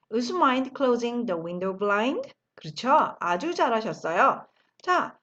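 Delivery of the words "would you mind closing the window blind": very slow, every word laid out; slow model sentence. Shown as a demonstration. Teacher modelling the phrase slowly for the class. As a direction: spell it out slowly for learners to copy. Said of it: "한 번 더 하죠".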